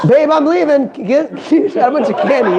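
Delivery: half-laughed jokey call-out; laughing call to wife. Retold or imitated. Dad jokingly telling his wife he's off for candy, laughing. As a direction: toss it off while laughing.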